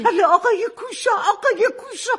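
half-laughing, half-crying sneer at the name; mocking laugh. Mother mocking the uncle's name to her daughter, bitter laugh.

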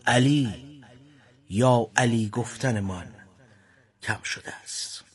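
measured, solemn verse reading with long pauses; poem recitation. Acted. Host reciting a mournful poem to listeners, solemn verse delivery.

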